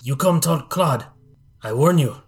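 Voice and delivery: menacing half-orc bodyguard, lightly voiced; a hint of a threatening bruiser; lightly voiced warrior guard. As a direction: lightly play a warrior warning off visitors.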